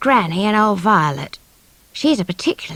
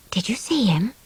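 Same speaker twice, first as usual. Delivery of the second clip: breathy secret whisper; 4 dB quieter than usual. Acted. Child whispers to sister about the hidden man. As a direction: ask it under your breath.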